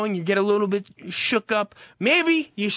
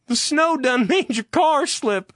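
higher, slow, lightly southern twang; mock southern accent; 5 semitones higher than usual. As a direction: let frustration slip into a southern drawl. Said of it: "always end with a southern accent".

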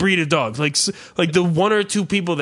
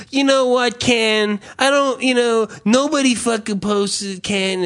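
mock indignant Ed; 8 semitones higher than usual. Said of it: "he fucking decided".

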